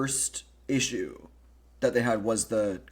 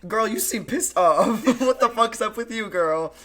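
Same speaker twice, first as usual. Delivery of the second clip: mock Rinna; 8 semitones higher, 5 dB louder than usual. Host hamming up Rinna prodding Kim, high and loud. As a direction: ham up a nosy friend's taunt.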